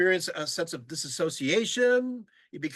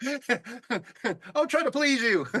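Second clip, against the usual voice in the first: appeasing plea; 3 semitones higher, much slower than usual. Retold or imitated.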